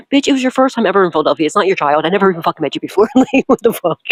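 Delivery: fast, incredulous rant. Retold or imitated. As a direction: rattle it off in disbelief. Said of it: "Dane looked at me like".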